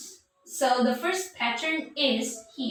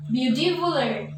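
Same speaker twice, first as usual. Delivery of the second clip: "beautifuler" said as a wrong example, in the usual voice; wrong form shown. Shown as a demonstration. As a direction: offer "beautifuler" as the mistake, plainly. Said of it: "No, no, that's wrong".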